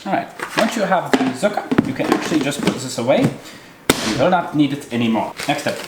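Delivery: hammy fake German accent; overdone German accent; terrible German accent. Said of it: "talking in a terrible German accent".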